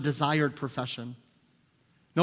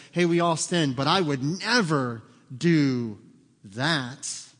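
louder, slowing down on the never; self-righteous boast; 4 dB louder, slower than usual. Retold or imitated. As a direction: lean smugly into it. Smug Christians quoted.

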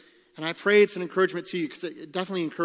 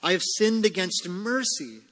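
raised, insistent confession; protesting sinner; 3 semitones higher than usual. Acted. Preacher voicing one who sinned against mercy, protesting. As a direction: lift the objection, rising on the key word. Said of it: "say you".

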